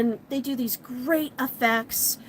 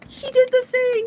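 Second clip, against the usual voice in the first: high, loud fan scream; cheering scream; 12 semitones higher, 7 dB louder than usual. Retold or imitated. Manga fans in the crowd cheer Venus, screaming with joy. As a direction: shriek it like a thrilled fan. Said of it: "we're screaming and cheering".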